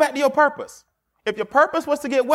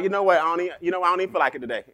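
lower, softer mock backing down; 4 semitones lower, 3 dB quieter, much faster than usual. Rival deciding not to fight today, lower and softer. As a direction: shrug the fight off quietly. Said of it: "one of us gonna be like".

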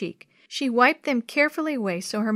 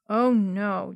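flat reading. Acted. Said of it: "Jenny read flatly".

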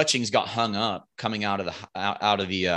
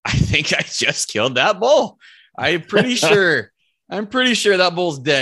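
higher, louder, thrilled and unsure; can't believe the shot landed; retold excited half-laughing claim; excited disbelief; 6 semitones higher, 5 dB louder than usual. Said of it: "I'm like".

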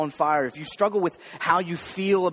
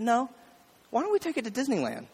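excited mom; 6 semitones higher, 5 dB quieter, faster than usual. Retold or imitated. Mom revealing the surprise.

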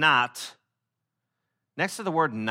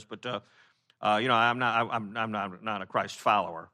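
hesitant non-believer; 3 dB louder than usual. Retold or imitated. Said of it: "When people go".

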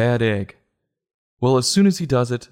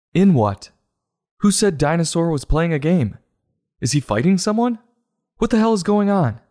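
exasperated; 5 semitones higher than usual. Real, not acted. Ranting at a baffling book.

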